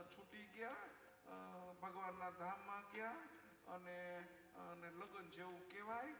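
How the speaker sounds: mock-soothing, words drawn out at the ends; lightly voiced wife gently reasoning away grief; consoling wife. Wife consoles husband over his mother's death, mildly soothing. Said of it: "અને સમજાવે".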